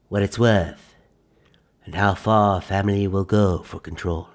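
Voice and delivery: deliberate trailer narrator voice; dramatic trailer read. Acted. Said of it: "I wanna try it again".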